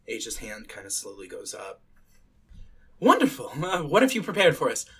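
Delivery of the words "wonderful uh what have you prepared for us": higher, louder, quicker director's welcome; lightly voiced audition director. Director to a nervous auditioner, lightly acted eager welcome. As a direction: greet the next auditioner brightly, lightly in role.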